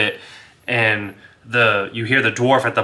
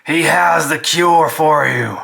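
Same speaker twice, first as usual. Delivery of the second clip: a touch higher Frostbite voice; Frostbite speaking; 5 semitones higher, 4 dB louder than usual. Acted. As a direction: lean in and tell the door. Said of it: "Frostbite leans over and he's like".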